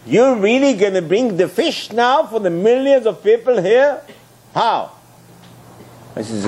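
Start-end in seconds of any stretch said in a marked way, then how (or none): 0.1-4.9 rising, higher disbelieving questions; incredulous doubt. Acted. Moshe questioning God about the fish, incredulous. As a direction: push the pitch up in disbelief.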